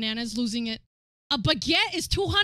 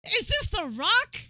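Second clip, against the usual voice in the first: high incredulous; can't believe it; disbelief; 5 semitones higher than usual. Real, not acted. Streamer seeing Banana on The Rock, disbelief.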